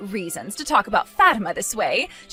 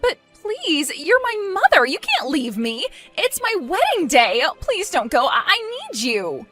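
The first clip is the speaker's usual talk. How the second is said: high-pitched, urgent pleading; desperate begging; 6 semitones higher than usual. Acted. Bride begs mother to stay on wedding day, desperate begging.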